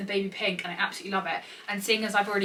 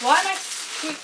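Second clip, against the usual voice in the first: excited squeal; 7 semitones higher, slower than usual. Real, not acted. Squealing at cute items.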